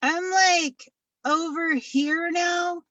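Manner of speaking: a lightly voiced creepy toy peeking in; hint of a sneaky little elf; Elf on the Shelf. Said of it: "this is my impression of Elf on the Shelf".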